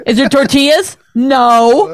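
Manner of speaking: high mock question, then emphatic no; imitating picky husband. Wife mimicking husband asking about tortillas, high mocking back-and-forth. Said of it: "Is that what I do?".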